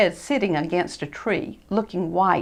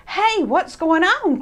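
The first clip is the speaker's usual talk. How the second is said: higher, louder slow call; 11 semitones higher, 4 dB louder, slower than usual. Acted. Christopher calling out to the children below. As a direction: call down the slope. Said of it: "shouted Christopher".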